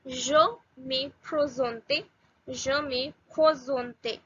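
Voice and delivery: slow, careful "Je me présente"; French phrase modelled slowly. Shown as a demonstration. Teacher models the introduction phrase for beginners, slow pronunciation demo. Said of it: "R is pronounced very different".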